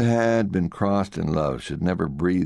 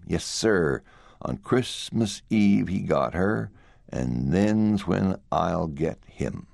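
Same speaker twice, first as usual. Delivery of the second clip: slow grim vow; slower than usual. Acted.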